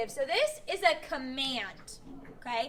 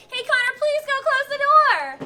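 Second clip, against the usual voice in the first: high, bright, sweet asking voice; singsong polite please; nice polite request; 8 semitones higher, 10 dB louder than usual. Shown as a demonstration. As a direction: ask sweetly, all nice. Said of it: "I could say it all nice too".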